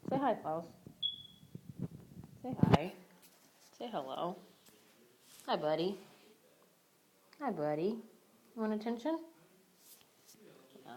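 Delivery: real affectionate greeting to a pet; talking to dog. Real, not acted. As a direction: coax a dog to say hello.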